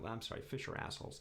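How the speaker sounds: whispered mock-confession; joking whisper. Real, not acted. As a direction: toss the joke off under your breath. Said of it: "No, actually, I'm kidding".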